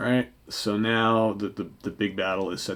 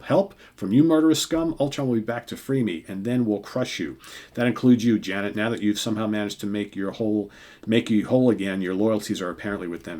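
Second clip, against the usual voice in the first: furious Hank; 4 dB louder than usual. Acted. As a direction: spit the accusation like a villain. Hank turns on the heroes.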